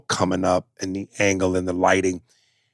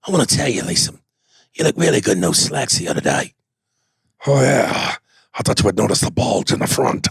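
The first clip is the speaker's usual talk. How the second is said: lightly gruff flirting; a hint of tough-guy growl on tender lines; action-star couple bit. Neeson and Statham as a couple flirting, mild mock gruffness. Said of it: "That'd be rough as a gay couple".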